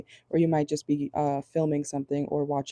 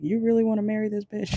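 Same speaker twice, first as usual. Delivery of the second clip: higher-pitched imitation of a disbelieving friend; mock incredulous question; 6 semitones higher than usual. People around you questioning the marriage, mock incredulous. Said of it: "People around you could be saying".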